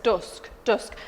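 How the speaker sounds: "dusk" with a rounded oo-like vowel; dusk as said now. Shown as a demonstration. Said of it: "So I say it now".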